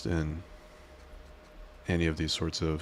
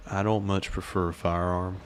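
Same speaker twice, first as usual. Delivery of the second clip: southern accent. Shown as a demonstration. Streamer trying out Nova's line for chat, light Southern accent. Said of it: "I think my southern accent is a little bit better".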